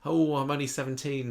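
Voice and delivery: a teen milking sympathy, hammed up; mock tragic whine. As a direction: overplay the sob story. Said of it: "She says".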